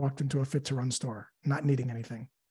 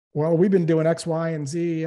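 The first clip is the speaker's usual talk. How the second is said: playing a prospect; 2 semitones higher, 6 dB louder than usual. Role-played prospect answer.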